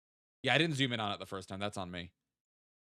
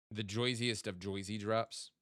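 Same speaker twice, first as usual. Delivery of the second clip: lightly put-on New Jersey accent, "Joysiest" with an oy sound, a bit slow; slower than usual. Streamer spotting Jersey plates, mock New Jersey accent. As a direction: stretch "Joysiest" and "Joyzy" like a playful New Jersey local. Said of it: "that's just fun to say in that accent".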